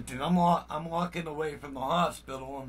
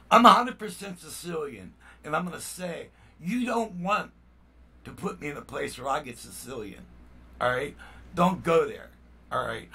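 angry warning; 4 dB louder than usual. Real, not acted. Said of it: "I'm angry".

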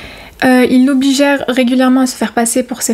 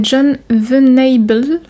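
English name in a French accent; bad English accent; much slower than usual. Real, not acted. YouTuber attempting a killer's English name, bad English accent. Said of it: "pour mon accent horrible, mon accent anglais horrible".

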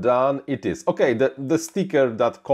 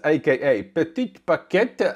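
fake French accent; 2 semitones higher than usual. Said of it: "I have to say it with the fake French accent".

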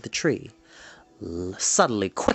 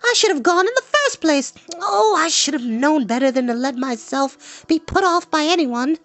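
put-on high, fretful girl's voice; high-pitched exasperated outburst; crying out, vexed; 14 semitones higher than usual. A narrator's reading. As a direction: complain in a high, girlish pitch. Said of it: "Eilonwy cried".

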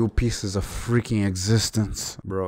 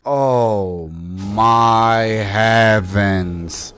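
exasperated groan; 5 dB louder, much slower than usual. Real, not acted.

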